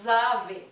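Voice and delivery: "avez" ending in a plain e, z silent; French avez. Shown as a demonstration. Teacher stressing the ending: ave. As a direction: end "avez" on e, no z. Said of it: "se lee como una E".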